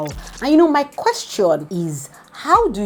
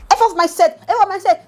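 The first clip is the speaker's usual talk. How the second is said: laughing; 12 semitones higher, 5 dB louder than usual. Real, not acted. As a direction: quote it high while laughing. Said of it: "they make me laugh".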